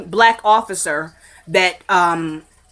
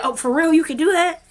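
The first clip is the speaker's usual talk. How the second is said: excited; 8 semitones higher than usual. Retold or imitated. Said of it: "Wyatt got all excited".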